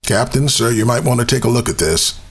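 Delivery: very high, rushed cadet voice; high fast young officer. Acted. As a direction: blurt it out like a nervous ensign. Officer alerting captain in demo.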